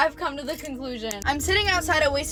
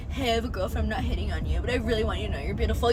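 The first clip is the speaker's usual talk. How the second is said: mocking guy voice, fast; 4 semitones lower, much faster than usual. Mocking the guy's line again.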